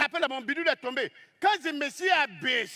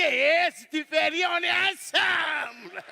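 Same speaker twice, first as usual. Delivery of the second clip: mock call; slower than usual. Calling to the gazelle.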